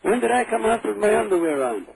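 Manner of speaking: ordinary talk, nothing marked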